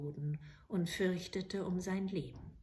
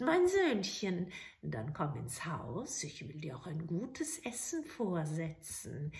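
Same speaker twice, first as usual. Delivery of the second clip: coaxing witch; 4 semitones lower than usual. Acted. Witch luring the soldier into her house, coaxing. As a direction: lure him in with false sweetness.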